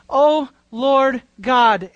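"O Lord God" drawn out word by word; slow reverent O Lord God; slow, weighty O Lord God. Shown as a demonstration. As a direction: stretch "O Lord God" slowly and solemnly. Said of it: "This is a very significant title".

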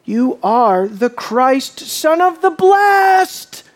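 slow mock proclamation, climbing high at the end; mocking declaration. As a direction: drag it out as a taunting statement. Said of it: "with a mocking statement".

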